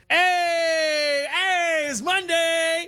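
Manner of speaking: high, bright upbeat take; cheerful. Acted. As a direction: sing it out like good news. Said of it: "All right, let's start again".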